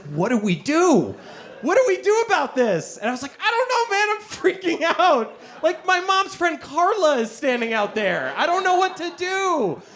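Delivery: hammed-up panicked whisper-huddle; mock panic. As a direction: play the panic big. Panicked huddle about older woman.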